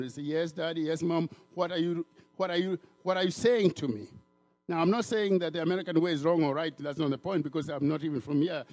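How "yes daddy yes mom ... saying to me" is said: obedient tone. Shown as a demonstration. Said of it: "you respond by an obedient tone".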